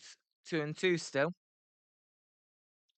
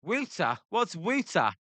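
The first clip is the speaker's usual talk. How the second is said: Philly accent. Shown as a demonstration. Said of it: "That's how we say it in Philly".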